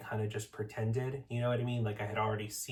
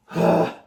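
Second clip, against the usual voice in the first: big loud breathy exhale; a loud sigh of overwhelm; loud shaky sigh; 7 semitones higher, 13 dB louder than usual. Real, not acted. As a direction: let out a heavy sigh. Emotional pause after unboxing.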